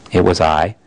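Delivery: a great calm voice weighing each word; Aslan's voice. Acted. The Voice admits it.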